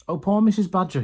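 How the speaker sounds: high, loud lament; cried out. A narrator's reading. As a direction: cry it out in the running song. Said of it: "he cried".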